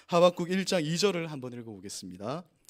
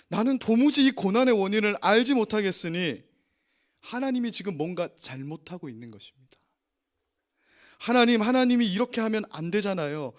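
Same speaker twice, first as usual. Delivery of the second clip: mock shout at God; 5 semitones higher, 4 dB louder than usual. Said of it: "소리쳐요".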